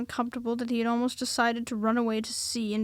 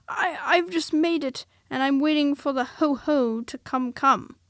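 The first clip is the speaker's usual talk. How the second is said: higher, stammering nervous Piglet; 4 semitones higher, 7 dB louder than usual. A narrator's reading. Piglet to Christopher Robin, higher stammering nervous voice. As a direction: stumble on nervously.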